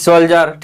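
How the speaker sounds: "soldier" with a j sound in the middle, sol-jer; correct soldier pronunciation. Shown as a demonstration. Teacher correcting both misreadings, "soldier" pronounced sol-jer. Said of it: "दोनों वाले को मैं समझा रहा हूँ".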